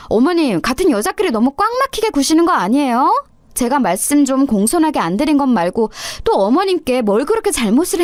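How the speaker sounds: a hint of a cheeky young wife, talking back; polite words with a sneer under them; lightly voiced defiant daughter-in-law. Daughter-in-law talking back to mother-in-law, lightly defiant.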